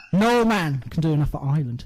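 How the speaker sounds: mock patriotic declaration. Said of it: "that was fantastic".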